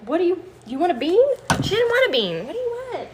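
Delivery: high, sing-song questioning of a pet; playful exasperated pet talk. Real, not acted. Owner asking begging cat what it wants, playfully high.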